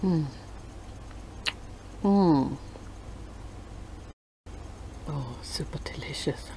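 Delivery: chewing while humming; savoring food; mouth full. Real, not acted. Seen 0: Bites tart, then hums with closed moving mouth while chewing.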